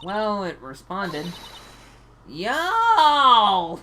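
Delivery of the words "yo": angry yell. Acted. Angry woman yells at intruders.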